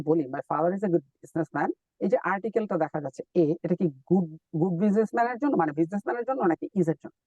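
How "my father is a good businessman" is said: my father is a good businessman spoken very slowly and clearly; slow example. Shown as a demonstration. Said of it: "For example".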